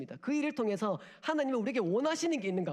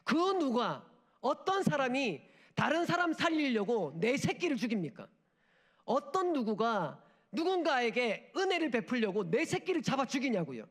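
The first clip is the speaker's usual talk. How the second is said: impassioned preaching; 5 semitones higher, 3 dB louder than usual. Real, not acted. Impassioned rhetorical question.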